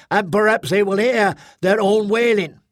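high, righteous threat; threatening squad mother. Acted. Squad mother about to draw her screech gun, threatening.

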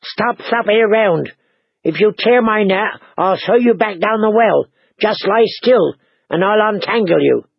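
put-on high, scolding girl's voice; exasperated threat to a captive; disgusted. A narrator's reading. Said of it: "Mira made a disgusted sound".

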